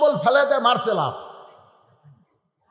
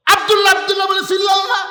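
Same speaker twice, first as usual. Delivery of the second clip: high, loud and fast yell; wife yelling at her husband; shouting wife; 11 semitones higher, 6 dB louder, faster than usual. Acted. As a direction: bark it out quickly.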